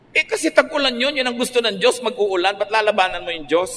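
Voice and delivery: rising preacher's insistence; emphatic preaching. Real, not acted. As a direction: press the point, almost exclaiming. Preacher rebukes praying against rain.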